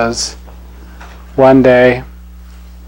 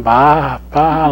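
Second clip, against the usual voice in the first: sheep bleat; 2 semitones higher than usual. Acted. Lion cub raised by sheep, lightly bleating baa. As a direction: bleat it gently like a lamb. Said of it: "learned how to baa even".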